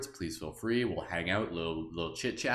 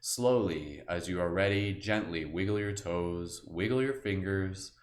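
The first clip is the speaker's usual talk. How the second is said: guided meditation. Acted. Guide listeners through the forest, in a calm meditation voice. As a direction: ease them gently through the scene.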